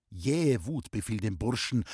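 ordinary delivery, nothing marked

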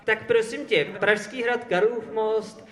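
usual speaking voice

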